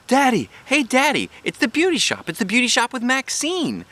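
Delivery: put-on a kid spotting something wonderful; excited shout. A narrator's reading. Junie B excitedly spots beauty shop.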